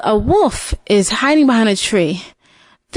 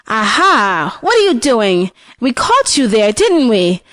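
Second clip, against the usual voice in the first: triumphant grandma. Acted. Grandma catches the wolf.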